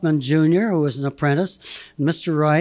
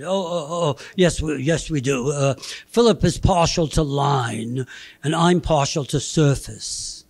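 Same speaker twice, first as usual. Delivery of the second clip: fake Boston accent. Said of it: "he had a fake Boston accent".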